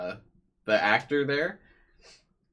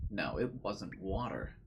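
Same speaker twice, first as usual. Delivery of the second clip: hushed character read; 7 dB quieter than usual. Acted. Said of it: "I'm just voice acting Takumi".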